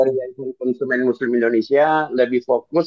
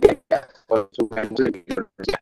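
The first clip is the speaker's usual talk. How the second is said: bad signal audio; 2 semitones lower than usual. Real, not acted. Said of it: "Sinyalnya kurang bagus".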